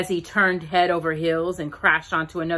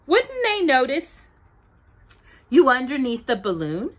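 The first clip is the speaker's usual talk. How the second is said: put-on much higher questioning boy; a child poking holes in the plan; high doubtful child; 6 semitones higher, 3 dB louder than usual. Child voiced asking.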